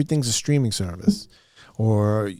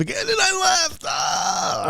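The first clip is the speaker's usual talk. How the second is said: mock shout; 12 semitones higher than usual. Real, not acted. Mock outburst at own failure.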